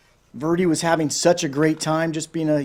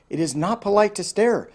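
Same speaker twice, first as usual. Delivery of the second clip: chiding; 5 semitones higher than usual. Acted. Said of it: "chided Aggie".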